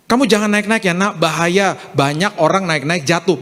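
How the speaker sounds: milder coaxing tone, pitch stepping down; acted caring parental warning. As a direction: gently caution a child who is climbing. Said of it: "Beda langsung perkataannya".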